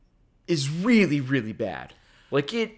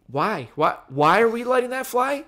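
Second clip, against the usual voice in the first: baffled protest; 5 semitones higher than usual. Retold or imitated. Imagined baffled reaction to filmmakers.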